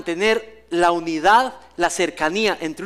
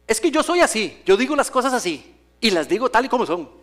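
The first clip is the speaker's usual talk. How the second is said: higher, self-satisfied blunt talker, lightly voiced; blunt believer; 3 semitones higher than usual. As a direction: mimic a proud blunt churchgoer. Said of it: "los escucha decir". (creyente orgulloso de su franqueza, imitado)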